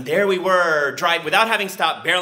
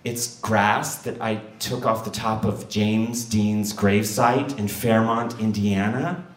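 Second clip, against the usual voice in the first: slow, low, hesitant confession; retold timid admission; shaky voice; 4 semitones lower, slower than usual. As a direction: confess slowly and nervously, lifting the last word like a question. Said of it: "with a shaky voice".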